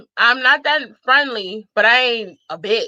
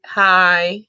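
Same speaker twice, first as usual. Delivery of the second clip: dry hi; 3 semitones lower than usual. Retold or imitated. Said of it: "Dry as hi as ever".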